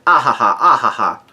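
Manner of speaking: spoken-out fake ha-ha laugh; mock laughter. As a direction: imitate two villains laughing, half-hearted. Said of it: "are laughing".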